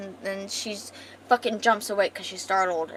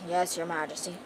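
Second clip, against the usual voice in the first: Gerald; 2 semitones lower, 3 dB quieter than usual. Acted. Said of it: "Gerald is this depressed little manslave".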